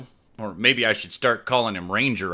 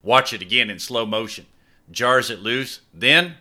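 eager commentary; 5 semitones higher, 4 dB louder than usual. Acted. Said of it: "he continued".

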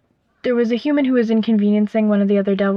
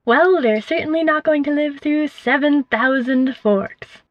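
Surrender's voice; 5 semitones higher than usual. Acted. Surrender voiced answering Simon.

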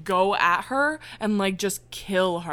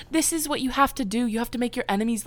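higher, fast villain speech; villain speak; 4 semitones higher, faster than usual. Retold or imitated. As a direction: rattle it off like a scheming villain. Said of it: "like, villain speak".

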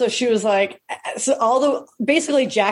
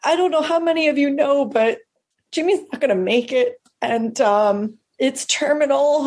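higher-pitched voice, lightly acting the mother; imitated grieving mother; 6 semitones higher than usual. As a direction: gently mimic a mother addressing the room. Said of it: "Mother goes up and she goes".

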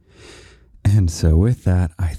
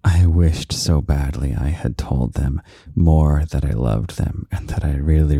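ordinary talk, nothing marked

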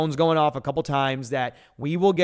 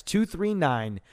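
slow dictation; slower than usual. Shown as a demonstration. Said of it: "One more time".

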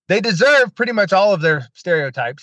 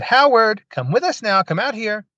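eerie summoning voice; 7 semitones higher than usual. Retold or imitated. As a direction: call him out like a lightly voiced spirit in the hall. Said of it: "it kept saying".

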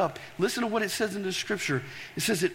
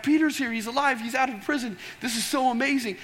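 put-on excited servant girl; 5 semitones higher than usual. Servant girl telling praying church, excitedly. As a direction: run in shouting that Peter is back. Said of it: "And she gets so excited".

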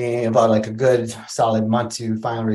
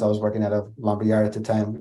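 ordinary talk

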